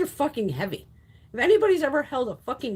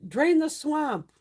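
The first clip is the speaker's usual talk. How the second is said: mocking a slogan; 5 semitones higher, much slower than usual. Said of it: "when they would be like".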